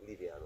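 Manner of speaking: "Liviano" said softly, lilting; "Liviano" with an Italian lilt; musical Italian pronunciation. Shown as a demonstration. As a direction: say "Liviano" musically as lee-vee-AH-no. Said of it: "a little more musical".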